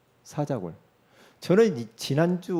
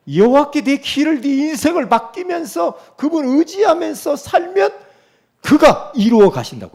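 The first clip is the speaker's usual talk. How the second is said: high, loud sermon proclamation; full-force preaching; 10 semitones higher, 9 dB louder than usual. Acted. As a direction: drive the promise home from the pulpit, high and loud.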